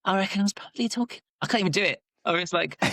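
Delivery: high, squeaky cartoon-mouse voice; Minnie Mouse voice. Shown as a demonstration. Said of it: "doing some impression of Minnie Mouse".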